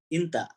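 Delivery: inta with a clear i vowel, not ente. Shown as a demonstration. Teacher correcting a student's pronunciation: inta, not ente. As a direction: open with a bright i in inta. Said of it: "jangan ente dong".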